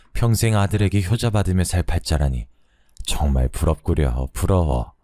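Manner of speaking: a hint of an old fortune-teller, lamenting; lightly voiced crone, sighing as she reads the palm; slowing on the envy at the end; sighing old woman. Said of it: "노파는 탄식하면서 말을 이었죠".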